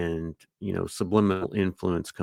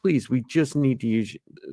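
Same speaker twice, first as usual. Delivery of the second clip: put-on higher, rehearsed child's plea; awkwardly formal learned line; memorized polite plea; 4 semitones higher than usual. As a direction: repeat the request like a stilted, polite kid. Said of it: "memorize lines that they just kind of repeat".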